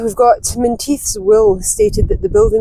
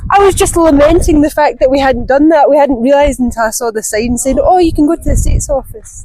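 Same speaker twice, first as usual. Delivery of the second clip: raised voice over the wind; shouting over wind; 6 semitones higher, 6 dB louder than usual. Real, not acted. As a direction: speak up loudly outdoors. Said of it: "I don't even know if you can hear me over the wind".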